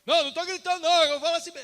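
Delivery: shouted, high-pitched denial of shouting; hammed-up oblivious loud-mouth; loud talker. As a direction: yell it as if that were normal. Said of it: "os irmãos que falam alto".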